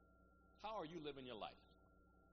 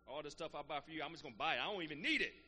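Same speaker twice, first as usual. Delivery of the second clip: louder, building playful demand to his daughter; mock bossy demand; 5 semitones higher, 10 dB louder than usual. Father teasing daughter about her first paycheck, mock demand. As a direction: playfully lay down the law. Telling daughter she'll pay.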